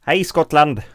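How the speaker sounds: excited Swedish greeting; cheery greeting. Real, not acted. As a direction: call out a cheerful hello. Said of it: "how do you say it in Scottish?".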